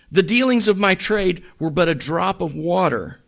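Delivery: a hint of a mournful ghost; unearthly voice. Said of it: "when he was a ghost and visiting Scrooge".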